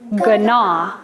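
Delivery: gnaw with a hard G-uh before the N; old sounded G. Shown as a demonstration. Teacher showing the old way, gnaw said as "guh-naw". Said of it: "we used to say".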